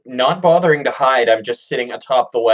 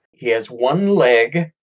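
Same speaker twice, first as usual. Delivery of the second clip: "He has one leg" drawn out with an odd lilt; slow "He has one leg", odd rise and fall on "one leg"; weird inflection; slower than usual. Acted. Player reports down to the party beneath the wagon, weird inflection on "one leg". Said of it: "I had a weird inflection on that".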